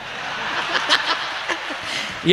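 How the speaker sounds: high, breath-broken mock crying; comic child's sobbing noise; imitated bawling. Showing how we cried as kids, mock bawling. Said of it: "એવું તો અમે રોતા હતા".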